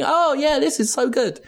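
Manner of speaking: high, hammy moaning delight; mock pleasure. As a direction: overplay the enjoyment. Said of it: "while you're going".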